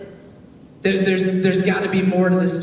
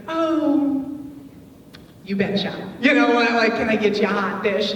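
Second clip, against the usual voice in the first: mock Minnesota accent; 4 semitones higher than usual. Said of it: "Minnesota nice".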